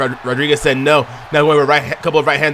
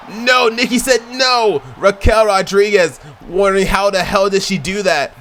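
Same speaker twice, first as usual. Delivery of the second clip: shouting commentary; 6 semitones higher than usual. Real, not acted. Commentator yelling the finisher and kickout to viewers, shouting high. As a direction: sell the kickout at the top of your voice. Finisher and near-fall count.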